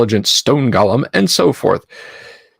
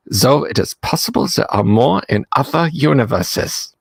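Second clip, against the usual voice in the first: put-on mild German accent. Reading gnome gods to the chat in a mild German accent. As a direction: read the gnome lore with a hint of German. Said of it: "Should I maybe do, like, a German accent?".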